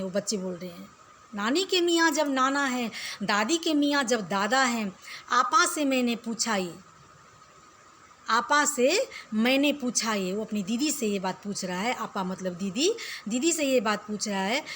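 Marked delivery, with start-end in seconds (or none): 1.3-10.3 poem recitation. Acted. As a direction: recite it to the class with a lilt. Teacher recites the children's poem.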